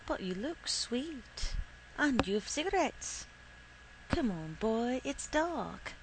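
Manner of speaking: lightly voiced coaxing young woman; a hint of a girl's wheedling invitation. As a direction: raise the pitch a little and lilt it.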